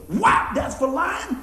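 high-pitched mock scolding with each blow; scolding teacher. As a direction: act out the teacher dealing out whacks. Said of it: "She goes".

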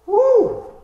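high, loud, overwhelmed shout; overwhelmed cry. Real, not acted. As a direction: let it burst out of you. Overwhelmed preacher cries out.

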